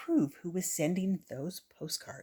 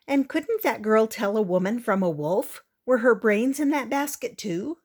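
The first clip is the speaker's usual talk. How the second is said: sneering; 3 semitones higher, 5 dB louder than usual. Acted. Prudence sneering at story.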